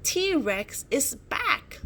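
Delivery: high, slow, alarmed warning; frightened warning. A narrator's reading. Olivia spotting the T-Rex again, slow alarmed warning. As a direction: warn them the danger returns.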